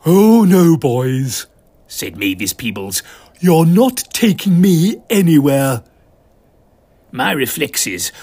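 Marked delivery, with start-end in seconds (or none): 0.1-1.5 loud, sharp defiant cry; defiant retort. Acted. Mavis to the Coves before disarming them, loud defiance. 3.4-5.8 loud, sharp defiant cry; defiant retort. Acted. Mavis to the Coves before disarming them, loud defiance.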